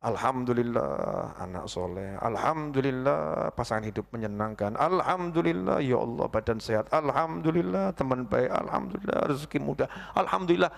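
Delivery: soft, low, unhurried gratitude; slow grateful thanks. Shown as a demonstration. Preacher demonstrating mindful alhamdulillah. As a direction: savour each blessing. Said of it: "yang mau kita alhamdulillahin apa coba".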